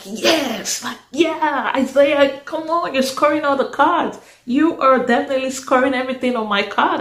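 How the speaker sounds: excited cheer. Retold or imitated. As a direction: cheer him on with delight. Cheering Isaiah on.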